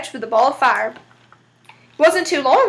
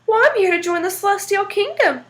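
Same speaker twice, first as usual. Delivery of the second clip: preacher-like voice; 5 semitones higher than usual. Acted. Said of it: "in his very best preacher-like voice".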